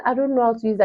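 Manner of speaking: plaintive mock-helpless reply; retold tearful helplessness. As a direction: imitate being close to tears, mildly. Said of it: "I just started crying again".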